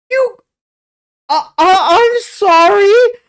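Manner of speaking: lost for words, almost breaking; flustered shock. Real, not acted. Stunned vlogger stammering to his audience in shock. Speechless at plot twist.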